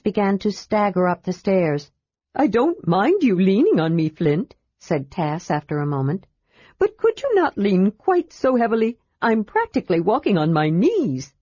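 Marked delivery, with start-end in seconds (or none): 2.3-11.3 lightly raised kender voice, encouraging; a cheerful kender helping a friend up; Tas the kender. Acted.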